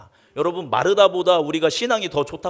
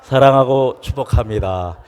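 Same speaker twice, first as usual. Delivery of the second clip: loud heartfelt blessing; 3 semitones lower, 10 dB louder than usual. Shown as a demonstration. Pastor shows the heartfelt blessing to the church, loud. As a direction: say it with real love and blessing, loud. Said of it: "인사할까요".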